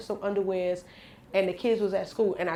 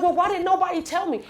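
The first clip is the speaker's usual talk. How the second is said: crying laugh; 9 semitones higher, 4 dB louder than usual. Retold or imitated. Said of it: "I started crying".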